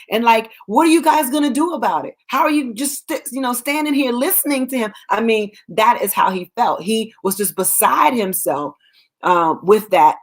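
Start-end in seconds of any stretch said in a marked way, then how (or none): 0.7-4.9 fast, higher exasperated challenge; livid challenge. Retold or imitated. David demanding why soldiers stand by, fast higher exasperation. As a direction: rattle it off, fed up with the bystanders. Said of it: "I mean, he was livid".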